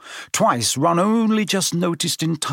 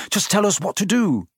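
higher-pitched, urgent request; quick reply; 8 semitones higher than usual. A narrator's reading. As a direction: press him for instructions, voice lifted. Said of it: "said Harry quickly".

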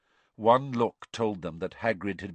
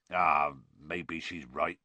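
low, slow, woozy admission; tipsy giant conceding; 5 semitones lower, slower than usual. A narrator's reading. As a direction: give in slowly and low. Drunk Hagrid gives in.

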